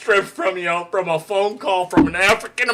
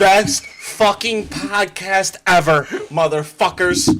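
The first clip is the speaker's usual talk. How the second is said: laughing exclamation; 3 semitones lower, slower than usual. Real, not acted.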